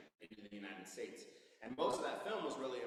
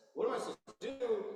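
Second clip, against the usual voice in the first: high, loud, exasperated plea to God; mock-despairing Moses wailing at God; exasperated cry; 10 semitones higher, 7 dB louder than usual. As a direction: throw up your hands and cry out.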